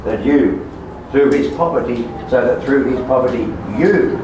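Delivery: forceful sermon, hammering "your" and "you"; emphatic preaching. Real, not acted. Preacher tells congregation it was for them, emphatic preaching. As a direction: press each pronoun home to the listeners.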